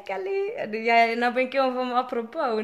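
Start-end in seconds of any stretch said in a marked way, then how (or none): 0.0-0.5 greeting a viewer. Real, not acted.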